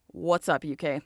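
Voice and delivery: playful put-on British accent. Greeting the UK out of love for accents, British accent. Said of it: "in a British accent".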